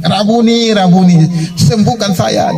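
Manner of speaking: high-pitched calls at normal volume; retold pleading shouts. Blind beggar begging Jesus for healing, mock pleading shout. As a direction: imitate repeated cries for help. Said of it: "dia teriak".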